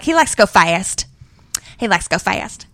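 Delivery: mock-thick Southern twang; thick Southern accent. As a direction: imitate a Tennessee friend's twang. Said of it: "it's the way she says it".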